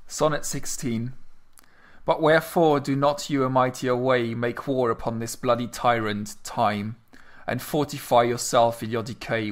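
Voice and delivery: measured poetry reading; reciting a sonnet. Acted. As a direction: read the verse with care. Reads Sonnet sixteen aloud.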